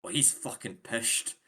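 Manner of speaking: a light Scottish accent on pished; a touch of Scottish accent. Shown as a demonstration. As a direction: toss it off like a Scot in the pub. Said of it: "That is pure Scottish".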